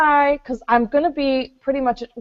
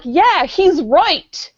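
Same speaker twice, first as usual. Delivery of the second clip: slow fake agreement; 4 semitones higher, 3 dB louder, much slower than usual. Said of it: "maybe we'll heckle like".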